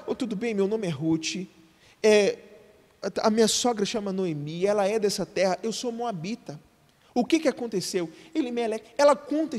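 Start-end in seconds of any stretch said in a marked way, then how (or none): 0.1-8.1 softer, plain explaining; Ruth's humble tale. Retold or imitated. Ruth speaking to the field overseer, softly. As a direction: tell it modestly as Ruth. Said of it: "ela conta a história".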